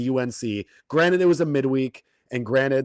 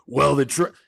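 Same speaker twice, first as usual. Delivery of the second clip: mock betting tout, pitched up; tout announcer voice; 4 semitones higher than usual. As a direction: sell the pick like an online tout. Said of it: "I'm doing the announcer voice".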